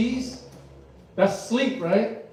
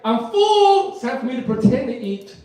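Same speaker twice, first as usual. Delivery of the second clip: put-on baby voice; 5 semitones higher than usual. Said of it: "It's like".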